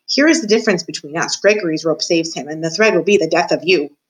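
a lightly voiced, gloating old jailer; a hint of a menacing jailer taunting the mouse; creepy old jailer. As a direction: savour every word like a sly old jailer in the dark. Gregory's voice again.

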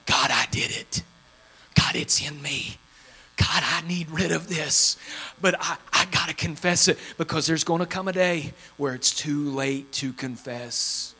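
soft, low, hushed prayer of confession; a sinner quietly admitting it to God. Pretend. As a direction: confess it under your breath to God. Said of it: "when we first confess".

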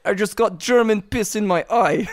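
playful mock Russian accent. Wounded gamer asking a comrade for vodka, Russian accent. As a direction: put on a comic Russian accent. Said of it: "You want me to give Russian accent now?".

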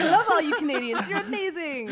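loud, overeager gushing; hammed-up flattery to save face; gushing backpedal. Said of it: "trying to, like, backpedal".

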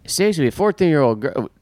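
high, hammed-up thrilled dude; dumb excited guy. To Chris, a clueless pest guy gushing way up high. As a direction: ham up a clueless guy who can't believe his luck. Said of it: "He's like".

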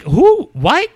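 high, loud eager who what; eager son. Retold or imitated. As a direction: jump in like a thrilled kid. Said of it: "he's like".

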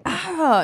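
high "ah" of someone hit; play-acted yelp of pain; mock pained cry. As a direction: cry out as if shot in the leg. Acts out being shot in leg.

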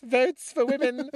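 high, squeaky British suffragette cry. Retold or imitated. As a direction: proclaim it slowly and loudly, very high, British. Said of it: "with this very high voice".

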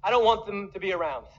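high, loud, insincere sweetness; a laughing, hammed-up fake assurance; mock fake love. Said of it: "Loving at a distance says".

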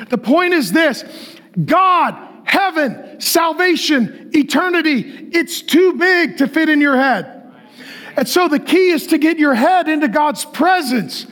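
yelling preacher on a roll; full-force preaching. Real, not acted.

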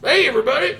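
high, cheery cartoon greeting; bright Homestar Runner shopkeeper call; Bubs impression. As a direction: pitch it way up like Bubs. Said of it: "he has the voice of Bubs from Homestar Runner".

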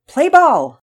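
loud, high umpire shout; umpire's call. A narrator's reading. Umpire opens the new season, loud high call. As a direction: ring it out high across the field. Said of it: "was uttered by the umpire".

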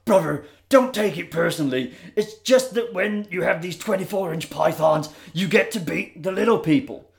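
lightly voiced Hulk Hogan swagger; a hint of the Hulkster brag; mild Hogan boast to the younger wrestler. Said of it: "An old Hulk Hogan".

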